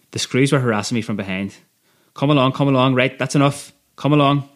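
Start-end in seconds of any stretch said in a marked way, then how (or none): 2.2-4.5 impatient guard orders. Acted. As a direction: hurry them out like a guard. Guards hustle prisoner out.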